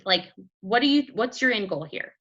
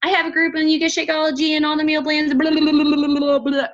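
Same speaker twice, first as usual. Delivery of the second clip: louder, fast sales spiel; mock pushy salesperson; pushy sales pitch; 5 semitones higher, 7 dB louder than usual. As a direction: rattle off the pitch. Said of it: "we all did the".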